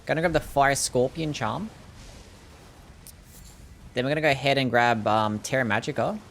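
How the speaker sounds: deliberately thick Aussie accent; strong Australian accent. Shown as a demonstration. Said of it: "I did it more with strong accent".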